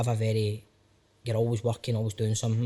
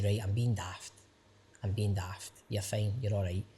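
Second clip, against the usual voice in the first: self-reassurance; 5 semitones lower, 6 dB quieter than usual. Retold or imitated. Calming his own anxiety.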